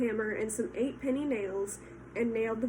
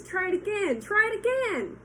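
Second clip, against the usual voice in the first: high, loud excited goose; goose cheering; 9 semitones higher, 4 dB louder than usual. Acted. Goose cheering Wilbur's dodge, high and loud. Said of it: "cried the goose".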